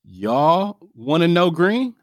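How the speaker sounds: high, slow, casual AAVE swagger; African American accent. Retold or imitated. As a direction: switch into a street-style African American voice. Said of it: "code switch is really just knowing your audience".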